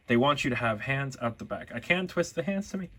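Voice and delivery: hiccuping between words; talking through hiccups; suppressing hiccups. Real, not acted. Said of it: "Sorry, I have hiccups all of a sudden".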